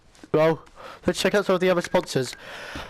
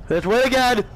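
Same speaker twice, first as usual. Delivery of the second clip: high rallying cry; rally the team with a pumped-up yell; excited shout; 6 semitones higher, 3 dB louder than usual. Real, not acted. Player shouting at AI teammates, excited shout. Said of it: "I know I'm shouting at A I".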